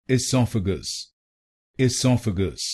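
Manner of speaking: "esophagus" put together slowly as i-SOF-a-gus; whole word slowly. Shown as a demonstration. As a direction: build "esophagus" slowly from its syllables. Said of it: "तो बनेगा".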